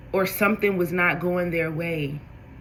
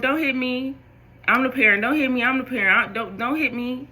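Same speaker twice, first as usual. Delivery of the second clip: higher-pitched imitation of a parent telling off a baby; mock scolding parent; 6 semitones higher than usual. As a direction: playfully mimic a flustered parent saying don't hit me.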